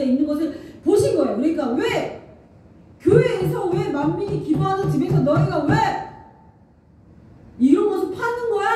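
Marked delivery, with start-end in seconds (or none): 3.0-8.7 mild mock rebuke, higher; preacher imitating an angry Jesus; retold anger. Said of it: "화를 낸 거예요".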